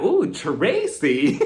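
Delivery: slow, drawn-out teasing; teasing ooh. Retold or imitated. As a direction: stretch it out, egging them on. Egging on a TV fight.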